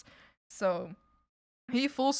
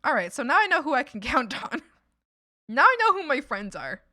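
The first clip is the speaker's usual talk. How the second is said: retold realization; 3 semitones higher, 7 dB louder than usual. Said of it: "I was like".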